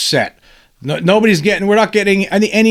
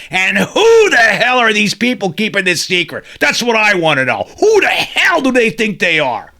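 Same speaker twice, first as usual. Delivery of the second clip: indignant raised voice; angry; 3 semitones higher than usual. Real, not acted. The host raging at whoever keeps the secret, angry. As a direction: demand answers, fired up. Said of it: "I'm angry about this".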